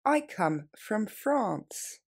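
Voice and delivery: very slow, every word separate. Shown as a demonstration. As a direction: drag it out word by word. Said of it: "Plus lentement".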